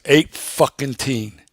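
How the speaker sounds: slow, emphatic imitated factory man; retold anger. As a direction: draw out each word in mock exasperation. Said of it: "He's starting to get angry now".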